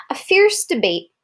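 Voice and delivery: hushed, secretive whisper of the heading; dramatic whisper. Acted. Parent reading to Kara, whispering the heading for drama. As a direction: whisper it to build suspense.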